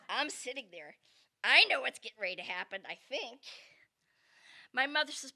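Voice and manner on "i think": ordinary delivery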